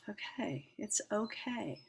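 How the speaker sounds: calm yourself down gently, almost under the breath; soothing self-talk. Retold or imitated. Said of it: "I was saying to myself".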